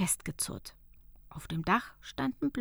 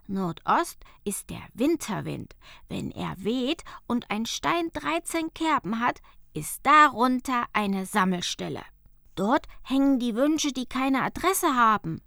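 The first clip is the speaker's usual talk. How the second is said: louder, earnest guide voice; Arvid explaining; 2 semitones higher, 6 dB louder than usual. Acted. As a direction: tell her the secret as Arvid. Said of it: "sagte er dann". (Arvid erklärt ernst)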